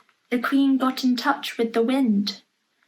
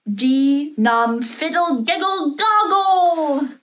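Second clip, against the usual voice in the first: magic words; 3 semitones higher, 5 dB louder, slower than usual. A narrator's reading. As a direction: chant the spell like the Queen casting it. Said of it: "said the magic words backwards".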